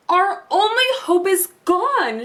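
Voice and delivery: high, slow wail of despair; a mother's hopeless lament; despairing cry. A narrator's reading. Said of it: "she cried".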